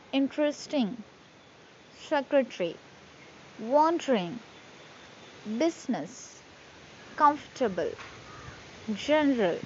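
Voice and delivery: word list with unstressed middle vowels dropped; reduced syllables. Shown as a demonstration. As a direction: read each word singly, swallowing the silent syllable, as in "choc-lit". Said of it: "we won't pronounce all the syllables".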